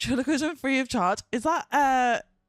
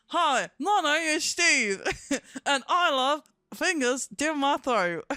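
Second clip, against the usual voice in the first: puppet Steve voice; 4 semitones higher, 3 dB louder, slower than usual. Retold or imitated. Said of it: "and I'm going".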